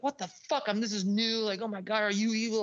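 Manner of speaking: high-pitched incredulous freak-out; retold alarm. Patient on a forced pill hearing voices, alarmed and high. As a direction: reenact shocked disbelief, pitch jumping up.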